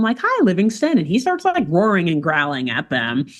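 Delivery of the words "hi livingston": high, friendly little greeting; kindly hello. Acted. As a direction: imitate little animals saying a sweet hello. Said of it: "they're kindly saying hello to him".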